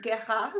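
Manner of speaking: tentative try at German "Gerhard", rising at the end; questioning pronunciation attempt. Shown as a demonstration. Co-host asking how the German name is said, questioning. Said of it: "How do you say".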